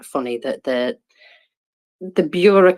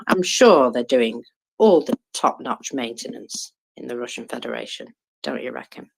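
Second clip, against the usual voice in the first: sarcastic. Real, not acted. Co-host mocking Russian helicopter maintenance, sarcastic. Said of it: "bit of sarcasm there".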